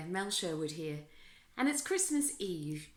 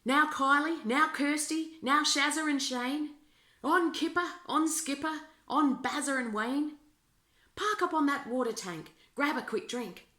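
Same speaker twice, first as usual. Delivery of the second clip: hearty, higher calls to the kangaroos; Santa calling the roos; 5 semitones higher, 3 dB louder than usual. Acted. Santa calls his kangaroos by name, cheerfully. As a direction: Santa urging his roos on, a bit louder. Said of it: "encouraged the roos by calling their names".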